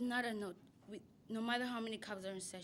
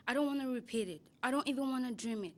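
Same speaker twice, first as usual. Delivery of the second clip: emphatic; 3 semitones higher, 7 dB louder than usual. Acted. Poem recital, intense lines.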